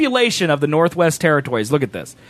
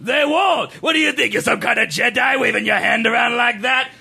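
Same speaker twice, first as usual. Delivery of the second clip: Watto impression; 3 semitones higher than usual. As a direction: belt it like a stubborn junk dealer. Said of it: "so much about Watto".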